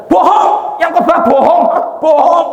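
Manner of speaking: wife screaming during the service; wife shouting. Acted. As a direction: heckle the preacher loudly. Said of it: "Lu ini teriak-teriak".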